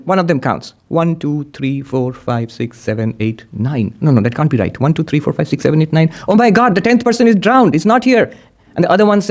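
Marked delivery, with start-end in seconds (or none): 0.9-3.9 fading count. Acted. Counting, growing unsure, trailing off. 6.3-8.3 alarmed cry. Acted. Realizes tenth man drowned.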